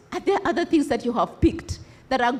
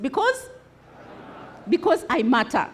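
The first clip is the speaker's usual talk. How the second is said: convinced. Shown as a demonstration. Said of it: "say it like you're convinced".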